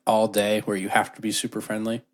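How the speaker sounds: talking around ice in mouth; mouth full. Real, not acted. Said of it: "Sorry, I put ice in my mouth".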